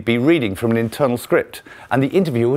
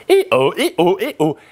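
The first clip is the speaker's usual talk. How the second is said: voice breaking; 8 semitones higher, 4 dB louder, much slower than usual. Shown as a demonstration. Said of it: "most people will get some".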